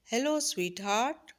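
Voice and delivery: put-on drawn-out sweet hello to a frightened girl; loving greeting. A narrator's reading. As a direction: greet her like a lover, slowly. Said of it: "انداز محبت بھرا رکھا گیا".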